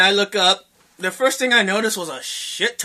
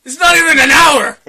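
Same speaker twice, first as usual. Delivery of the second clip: loud, higher-pitched incredulous objection; exasperated protest; 5 semitones higher, 6 dB louder than usual. Retold or imitated. Boyfriend arguing with clingy girlfriend over five minutes, exasperated protest. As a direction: argue back loudly, dragging out the words.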